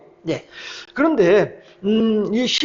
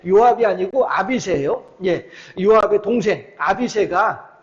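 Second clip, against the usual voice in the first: usual speaking voice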